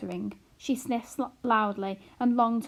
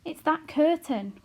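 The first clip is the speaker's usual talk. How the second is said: crying out; 7 semitones higher, 6 dB louder, slower than usual. A narrator's reading. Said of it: "cried Homily".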